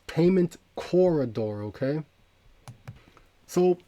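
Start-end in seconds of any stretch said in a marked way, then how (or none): 0.1-1.6 payment corridor said slowly with payment raised; emphasized phrase. Real, not acted. Host repeating the key term to his viewers, deliberate stress. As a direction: lean on payment, slow and deliberate. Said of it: "And I emphasize that word".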